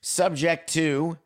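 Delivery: slow formal reading. Retold or imitated. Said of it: "and then you put the physical in".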